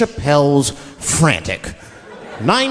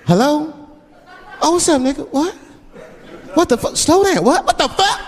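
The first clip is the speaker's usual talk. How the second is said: much higher, rising frantic shouts; escalating alarm on phone; 12 semitones higher than usual. Retold or imitated. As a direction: driver losing it over bad news. Driver's phone call escalating.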